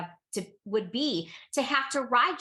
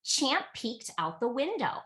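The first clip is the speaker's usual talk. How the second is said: ordinary delivery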